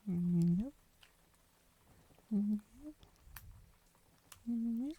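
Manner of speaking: light rising meows, the last one high; cat meow. Pretend. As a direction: meow cutely like a kitten. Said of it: "First you ask for an English meow".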